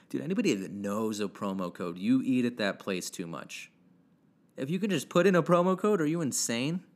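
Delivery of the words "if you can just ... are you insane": higher and louder, incredulous; exasperated outburst. Real, not acted. Ranting at promo-code users, exasperated outburst. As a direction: blow up at the absurdity.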